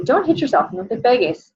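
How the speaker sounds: teacher scolding little ones; scolding little kids. Shown as a demonstration. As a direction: tell preschoolers off kindly. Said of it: "I say that sometimes in my little kids class".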